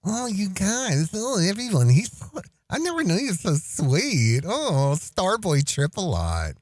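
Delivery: fawning, sing-song sweetness; mock gushing. Mocking fan gushes over a sweetie pie, mock adoring. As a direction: pretend to be touched and adoring.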